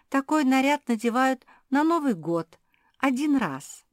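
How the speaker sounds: knowing little cat; a touch of condescension; Fenechka's voice. Acted.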